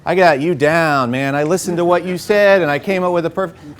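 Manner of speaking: pushy, overeager pitch; eager salesy pitch. Retold or imitated. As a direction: oversell the idea like a salesman. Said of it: "you're not looking to try and say".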